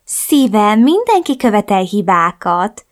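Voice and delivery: a hint of a reproachful mother. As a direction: reproach her daughter in a lilting mother voice. Mother voiced in story.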